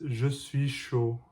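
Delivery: slow, careful French "Je suis chaud"; slow demo. Shown as a demonstration. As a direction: spell out "Je suis chaud" slowly, each word distinct. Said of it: "and that is".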